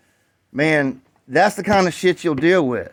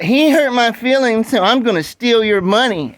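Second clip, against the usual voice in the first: whiny spoiled brat; 8 semitones higher, 4 dB louder than usual. Retold or imitated. Mocking the rude seller as a whiny spoiled brat. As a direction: mimic a sulking brat to belittle him. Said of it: "some spoiled brat".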